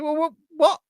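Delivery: bursting out in disbelief; stunned shout on hearing the news; shocked disbelief. Retold or imitated. Realising he has no ticket.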